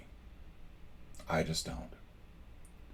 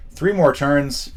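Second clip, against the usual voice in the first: slow, louder, higher ominous count; dramatic countdown; 8 semitones higher, 7 dB louder, much slower than usual. Real, not acted. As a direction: stretch it out like a doom clock. Countdown near game end.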